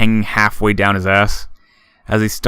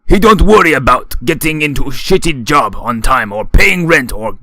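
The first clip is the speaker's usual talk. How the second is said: put-on loud, higher slurred drunk; booming drunken voice; 6 semitones higher, 6 dB louder than usual. A narrator's reading. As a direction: preach it, sloppy and proud. Shoji's drunken speech.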